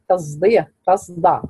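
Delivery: تصدية and تصدع with the sad voiced towards z; ishmam of sad. Shown as a demonstration. Teacher reading students' examples, تصدية and تصدع with ishmam. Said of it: "إشمام الصاد الساكنة".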